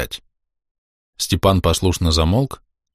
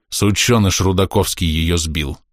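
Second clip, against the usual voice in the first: hoarse. Acted. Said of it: "хрипло произнёс".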